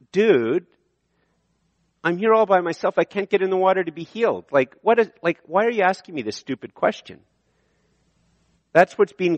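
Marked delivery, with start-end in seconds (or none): 0.1-7.2 a touch of snarky dude, speeding up; sarcastic retort. Pretend. Invalid sneering back at Jesus, mildly sarcastic. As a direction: brush off the question. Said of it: "basically he's saying".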